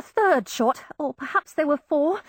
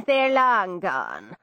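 Irish lilt; 5 semitones lower, much slower than usual. A narrator's reading. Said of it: "Irish constable".

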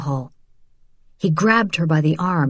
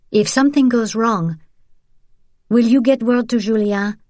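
high-pitched, worried appeal; Isabel, anxious request; 6 semitones higher than usual. Acted.

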